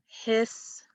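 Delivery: "history" split into his, tor, ee with gaps; syllable by syllable. Shown as a demonstration. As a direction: draw out each part of "history", holding the final ee. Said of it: "let's replace that third syllable".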